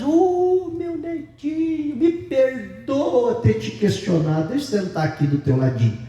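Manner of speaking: grovel sweetly to the little boss; sweet submissive grandma. Retold or imitated. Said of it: "E a avó diz".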